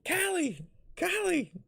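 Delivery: very high falsetto calling out; mock yell in a squeaky high voice; Ingrid yelling. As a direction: imitate a friend trying to rouse someone. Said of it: "yelling at me".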